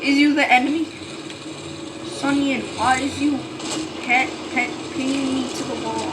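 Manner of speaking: half-shouting in alarm at being pinned; alarmed outcry. Real, not acted. Pinned by unknown tank.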